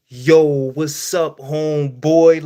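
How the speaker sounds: slow, drawn-out imitation of a white guy saying hi; lightly voiced white dude, drawn out; mock white dude greeting. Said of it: "motherfuckers rolling up to me".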